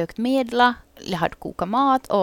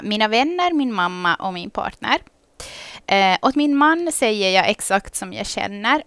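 reading listener answers. Acted. Reads out listeners' written answers.

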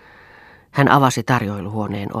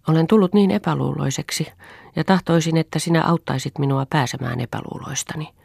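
higher-pitched, earnest request; raised pitch, a mild plea; pleading; 5 semitones higher than usual. Acted. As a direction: ask for help, gently pleading. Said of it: "pyysi Lea".

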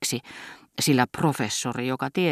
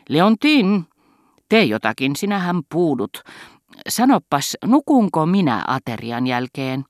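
louder, higher call to wake his wife; calling out sharply; 3 semitones higher, 3 dB louder than usual. Acted. Husband calls his dozing wife, loud and high. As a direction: snap her out of her doze.

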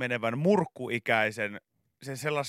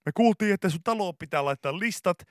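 a touch higher, louder host sell; lightly voiced cheery reveal; mild makeover host parody; 4 semitones higher, 6 dB louder than usual. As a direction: pitch the trim-filled house like a TV host. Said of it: "samalla tyylillä".

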